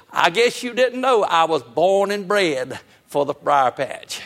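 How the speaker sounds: slow sly taunt trailing to a breath; gloating rabbit. Retold or imitated. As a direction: rub it in with a grin. Rabbit taunts from briar patch.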